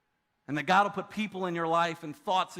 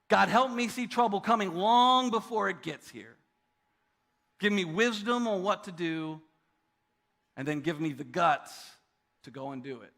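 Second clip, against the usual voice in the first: prayer voice. Shown as a demonstration. Pastor repeats the prayer for the church, firmer. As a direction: repeat the prayer with more push. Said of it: "It goes like this".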